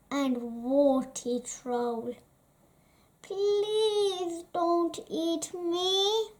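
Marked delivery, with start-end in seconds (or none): 3.2-6.3 high, slow pleading; frightened small plea; pleading little goat. Acted. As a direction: beg the troll not to eat you. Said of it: "cried Beanie".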